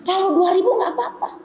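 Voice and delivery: high, laughing agreement. Retold or imitated. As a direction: cheerfully give in with a laugh. Mother agreeing, retold, laughing.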